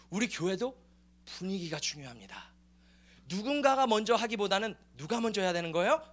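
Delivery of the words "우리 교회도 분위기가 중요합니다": sudden whisper to the congregation; hushed, confiding whisper; whispered aside. Real, not acted. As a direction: drop to a hush to draw them in. Pastor drops voice mid-sermon.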